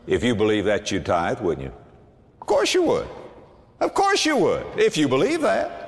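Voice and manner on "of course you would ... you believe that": much higher, insistent preaching; rising, incredulous pulpit insistence; emphatic of course. Real, not acted. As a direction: drive it home with a grin.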